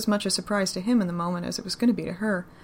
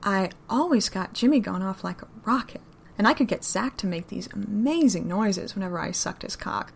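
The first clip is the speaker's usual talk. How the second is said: Southern lady. Acted. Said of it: "making an effort to sound like a proper Southern lady".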